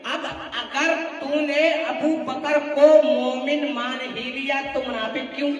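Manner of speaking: insistent rhythmic sermon argument; forceful preaching. Real, not acted. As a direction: drive each question home to the congregation. (ज़ोरदार तक़रीरी अंदाज़)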